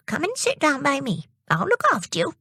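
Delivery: high, kindly grandmotherly voice, hushed in places; kindly old lady. Acted. Old lady comforts Jimmy and invites him to the sands, kindly. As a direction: promise him a treat at the seaside. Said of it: "she said".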